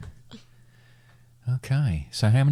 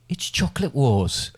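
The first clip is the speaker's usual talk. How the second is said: slow, drawn-out title announcement; dramatic announcer; 4 semitones higher than usual. Shown as a demonstration. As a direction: announce it like a show jingle. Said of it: "As you can hear by my sting".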